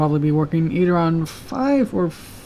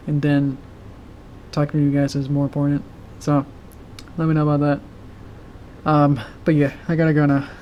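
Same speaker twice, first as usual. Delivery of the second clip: ordinary delivery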